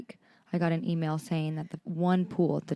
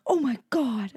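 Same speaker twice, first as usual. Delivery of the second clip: retold amazement; 6 semitones higher than usual. Retelling parents' amazed reaction.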